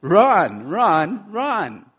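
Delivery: milder repeat of the shout; rising urgent run, run, run; urgent command. Shown as a demonstration. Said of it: "But I'm telling you what".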